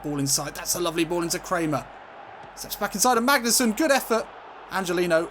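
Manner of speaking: football commentator warming up; live play-by-play. Real, not acted. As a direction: lift pitch and volume as attacks build.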